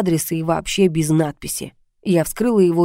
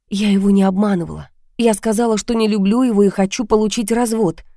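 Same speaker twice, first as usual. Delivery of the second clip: lightly voiced heroine, higher and defensive; anxious heroine; 3 semitones higher than usual. Heroine justifying the trap to the blackmailer, defensive. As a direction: lift the voice a little, pleading her case. Heroine denies deceiving husband.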